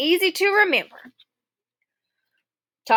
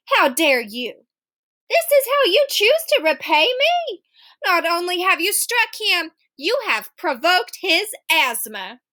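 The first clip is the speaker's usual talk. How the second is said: indignant; 4 semitones higher than usual. Acted. Mother furious at the boy.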